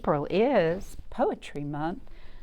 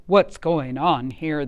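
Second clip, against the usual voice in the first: slow, louder growl of a fierce lion; mock growl; 7 dB louder than usual. A narrator's reading. Fierce lions challenge Leonard, slow and louder. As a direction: lean in like a lion on the prowl. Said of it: "they growled".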